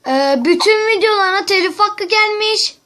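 yüksek, yüksek sesle telaş; endişeli haber verir gibi; telaşlı oyunculuk. Acted. Kuzenine telefon şakası. (kuzenine telif haberini telaşla veriyor)

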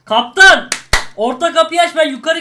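loud call to the captain. Real, not acted. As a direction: shout his title across the room. Calling out to the captain.

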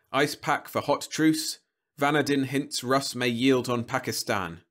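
slightly stylised headline reading; news headlines. A narrator's reading. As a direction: read it off a news ticker.

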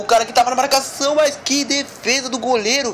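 high, loud disbelief at the save; amazed exclamation. Real, not acted. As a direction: gasp out the praise. Keeper's save. (espanto empolgado)

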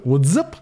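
"What's up" with UP punched and rising; stress on UP. Shown as a demonstration. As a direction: lift the word "up" like a catchphrase. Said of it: "I thought it was like".

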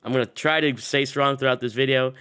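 hoarse, sick throat; pushing through a cold. Real, not acted. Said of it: "dealing with my sick voice".

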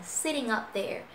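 "sitting up" joined through the ng; linked ng sound. Shown as a demonstration. Teacher models the phrase for learners, "sitting up" linked. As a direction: carry the ng of "sitting" into "up". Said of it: "âm ngờ đó".

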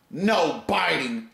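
slow mock scolding of a kid; lightly imitated owner scolding the dog; scolding a child. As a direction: spell it out slowly like to a toddler. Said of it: "like it's a fucking kid".

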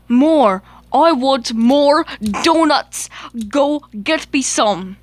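greedy toy barking orders; demanding. Acted. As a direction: insist like a spoiled engine. Duncan demands more donuts.

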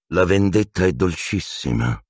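understated gloating hiss. Acted. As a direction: savour revenge with a slight hiss. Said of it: "sibilò Piton a Black".

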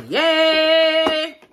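high, loud cheer of relief; excited yay. Real, not acted. Cheering as the box finally opens, excited. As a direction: celebrate getting it open.

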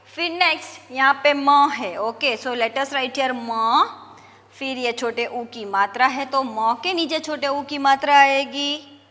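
ordinary talk

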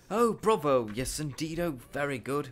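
loud, high-pitched cheering; elated cry. A narrator's reading. Wandmaker cheers Harry's wand success, crying out in delight. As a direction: exclaim with delight, pitched well up. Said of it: "Mister Ollivander cried".

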